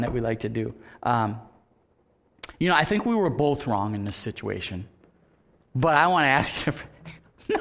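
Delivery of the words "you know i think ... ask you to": shifting blame apology. Shown as a demonstration.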